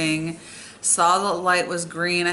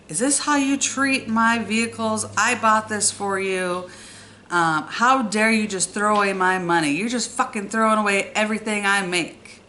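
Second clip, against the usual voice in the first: retold tirade, raised but not shouted; imitating angry yelling; 4 semitones higher than usual. Furious grandfather scolding girl over the car, mock yelling. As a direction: act out an indignant scolding at moderate volume. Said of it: "he just starts yelling at everybody".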